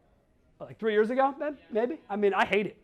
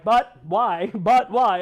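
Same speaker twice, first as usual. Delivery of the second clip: questioning millennial; 2 semitones higher, 8 dB louder, much slower than usual. Retold or imitated. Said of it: "like a young questioning millennial".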